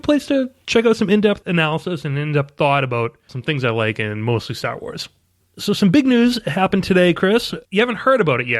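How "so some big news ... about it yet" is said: higher-pitched, eager news tease; excited. Real, not acted. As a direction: build excitement about the big news. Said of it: "by the excitement in your voice".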